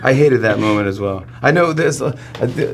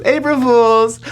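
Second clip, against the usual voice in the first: loud high triumphant shout; imitating a gleeful loud April Fools shout; gleeful reveal; 13 semitones higher, 5 dB louder, slower than usual. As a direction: burst in and yell the punchline. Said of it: "and she goes".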